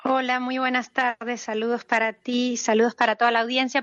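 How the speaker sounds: slightly hoarse, rough voice. Real, not acted. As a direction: speak with a hoarse throat from cold. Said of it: "Perdón si estoy un poco ronca".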